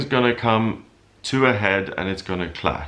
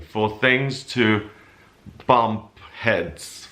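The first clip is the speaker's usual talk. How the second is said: normal talking voice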